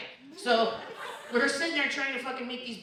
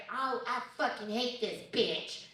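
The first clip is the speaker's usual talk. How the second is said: Lupe's sassy voice; 4 dB quieter, slower than usual. Retold or imitated. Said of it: "Was that your Mexican accent?".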